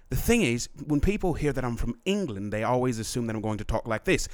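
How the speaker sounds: understated put-on English accent. Faker proving English origins, in a subtle English accent. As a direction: explain it in a mild English accent. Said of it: "from England is I would say".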